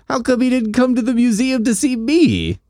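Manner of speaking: a hammed-up sulky girl complaining; mock pouty Gwen. Gwen sulking that Peter ignored her, high whiny mock girl voice.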